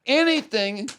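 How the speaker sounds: a hint of laughing hype; hyped storytelling. Real, not acted. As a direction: build it up big for the room. Hyped storytelling, high and loud.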